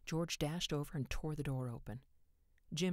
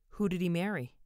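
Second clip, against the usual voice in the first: hoarse demand; 4 semitones higher, 8 dB louder than usual. A narrator's reading. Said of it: "he demanded hoarsely".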